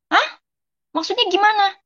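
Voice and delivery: can't take in the news; shocked disbelief. Retold or imitated. Daughter hearing of her mother's death, stunned high disbelief.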